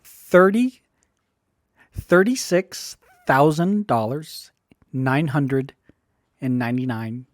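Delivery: halting, unsure number reading; stumbling cold read. Real, not acted. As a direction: trip over the numbers, pausing. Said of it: "Sorry, I'm reading this wrong 'cause it's just so big".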